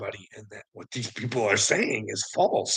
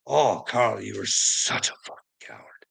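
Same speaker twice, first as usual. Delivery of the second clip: self-mocking whisper; 3 semitones lower than usual. Mocking himself.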